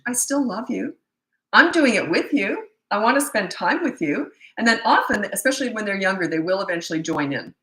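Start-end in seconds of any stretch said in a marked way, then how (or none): 0.1-4.3 higher, affectionate lilt; loving reassurance. Shown as a demonstration. Parent sending message to punished child, loving reassurance. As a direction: reassure the child, kindly and unhurried.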